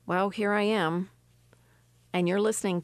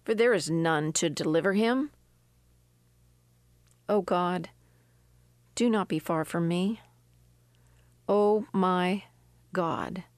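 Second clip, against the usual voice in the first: scripture reading; 2 semitones lower than usual. Acted. Preacher reading the psalm to her listeners, measured and prayerful. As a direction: read the verses prayerfully. Reads Psalm seventy-one aloud.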